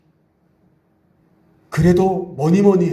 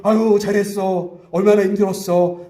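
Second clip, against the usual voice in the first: welcoming praise; 4 semitones higher than usual. Shown as a demonstration. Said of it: "막 하면서 여러분".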